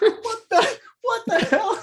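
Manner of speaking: very high, squeaky mock outrage; mock scoffing. Game master acting out a player's scoff at overheard stupidity, mock indignant. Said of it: "scoff, like, like you would".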